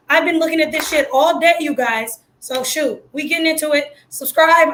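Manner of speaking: losing her voice, hoarse and strained. Real, not acted. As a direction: talk through a worn-out hoarse voice. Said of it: "I'm losing my voice".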